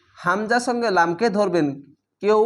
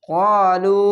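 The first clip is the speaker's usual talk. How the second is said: ক্বালু with both vowels held long; drawn-out recitation; 4 dB louder, much slower than usual. Shown as a demonstration. Teacher modelling the one-alif stretch, drawn out. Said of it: "এক আলিফ টেনে পড়বেন".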